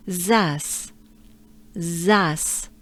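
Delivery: zas said slowly, open A; slow French zas. Shown as a demonstration. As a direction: drawl out zas. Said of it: "So Z A S".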